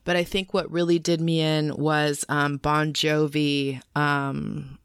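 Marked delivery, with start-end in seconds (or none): 0.0-2.2 hoarse after a night of singing. Real, not acted. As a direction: talk through a worn-out throat. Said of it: "right now I'm hoarse".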